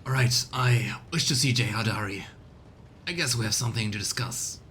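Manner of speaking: hushed, deliberate lord's command; whispered decision. Acted. Player voicing lord character.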